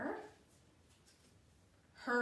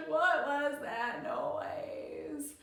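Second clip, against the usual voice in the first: drawn-out wail; 2 semitones higher, much slower than usual. Acted. Frightened girl wails in story.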